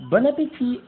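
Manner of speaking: loud, high attack cry; mock gleeful call. Calling out as he attacks. (cri d'attaque claironnant, pour rire)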